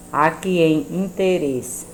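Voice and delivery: "interesse" drawn out slowly; slow pronunciation. Shown as a demonstration. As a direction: stretch "interesse" to show its syllables. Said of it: "temos que pronunciar devagar".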